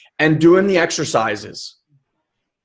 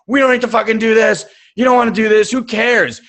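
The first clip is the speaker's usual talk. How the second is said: higher, pushy, dismissive inner voice; yelling inner voice; 5 semitones higher, faster than usual. Acted. Coach voices the comfortable inner voice talking a client out of it, yelling. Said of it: "not yelling".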